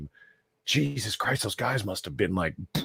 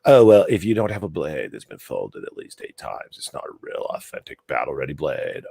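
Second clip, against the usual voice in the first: lower, smug sword-snob voice; condescending sword snob; 6 semitones lower than usual. Retold or imitated. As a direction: sneer like a pedantic sword nerd. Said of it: "condescending fucking pricks about it".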